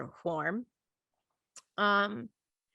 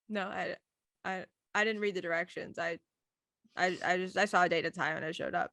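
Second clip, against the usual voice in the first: soft, halting, low confession; retold mumbled excuse, trailing down; sheepish admission; 3 semitones lower, 5 dB quieter than usual. Guest admits to the mom she never registered, sheepish and quiet.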